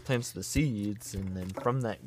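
a hint of a solemn elder teaching; lightly voiced, measured grandpa; grandpa's preachy talk. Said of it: "he talks with his hands like this".

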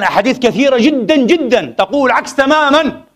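ordinary delivery

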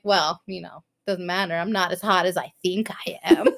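mock-humble, dropped in pitch, laugh at the end; mock resigned. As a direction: toss it off as if defeated. Running joke said as mock resignation.

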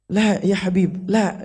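slow, lightly acted Arab exclamation; Arab impression. Shown as a demonstration. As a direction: imitate an Arab talking with expressive gestures, drawn out. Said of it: "itu biasanya orang Arab". (menirukan gaya bicara orang Arab)

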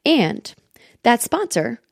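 upbeat podcast ad read with lifted emphasis; sponsor ad read. Acted. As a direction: sell it to the listeners in a lively host-read. Reads a sponsor ad.

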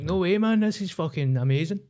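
mock amazement. Comic retelling his reaction to new friends, mildly hammed-up amazement. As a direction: imitate your own delighted surprise.

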